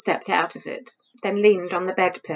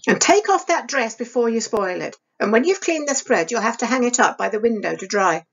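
stern, scolding stepmother, a little raised; 3 semitones higher than usual. Acted. Stepmother scolding Isabel over the candle, sharp and stern. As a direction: scold the girl like a harsh stepmother. Stepmother voiced in read story.

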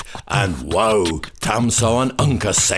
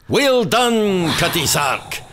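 roaring cheer; 8 semitones higher than usual. Acted. Tam, bewitched, cheering the dancing witch, roaring out. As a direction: bellow it out like a man carried away. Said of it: "and roars out".

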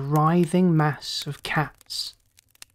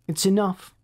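snapped; 3 semitones higher than usual. Acted. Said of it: "Scott snapped".

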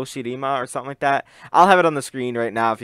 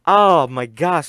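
stunned; 2 semitones higher, 5 dB louder, much slower than usual. Real, not acted. Reacting to loud rap.

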